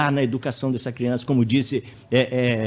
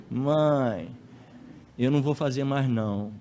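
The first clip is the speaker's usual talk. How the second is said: sweet little voice; slower than usual. Acted. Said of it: "naquela vozinha".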